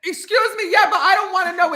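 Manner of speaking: laughing through the words; laughing protest. Real, not acted. Husband laughing as he protests to his wife. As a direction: protest while cracking up.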